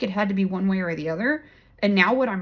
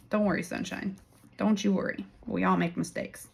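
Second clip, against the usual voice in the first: reassuring; 4 dB quieter than usual. Acted. Soothing viewers about their mistakes.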